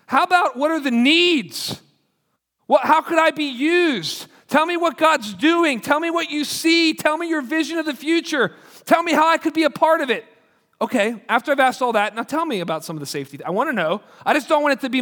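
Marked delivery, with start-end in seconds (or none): 0.1-10.3 a pastor urging new staff, raised pitch; lifted quoting voice. Retold or imitated. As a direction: urge them like the pastor did. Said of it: "He said".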